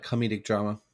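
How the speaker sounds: "comedic" said kuh-MEE-dik; "comedic" with a long ee in the stressed middle syllable; stressed second syllable. Real, not acted. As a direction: put the weight on the MEE of "comedic". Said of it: "he kinda stressed that a little bit".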